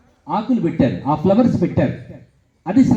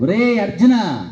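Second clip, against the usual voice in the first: a slow, drawn-out teacher's call to his pupil; slow stern call; 2 semitones higher, much slower than usual. Retold or imitated. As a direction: stretch the name out slowly, like a guru calling. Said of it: "మూడోసారి రెట్టించడు". (నెమ్మదిగా సాగదీసి పిలవడం)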